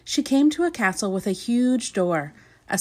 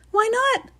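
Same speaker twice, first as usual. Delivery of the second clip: chuckling. Acted. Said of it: "she chuckled".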